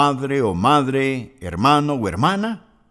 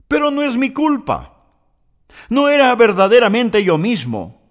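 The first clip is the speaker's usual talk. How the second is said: whiny excuse; 6 semitones higher than usual. Retold or imitated. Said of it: "lo que en realidad está diciendo es".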